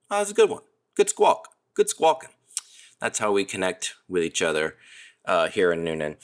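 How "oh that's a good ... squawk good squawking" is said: excited praise. Real, not acted. Praising listeners' squawks.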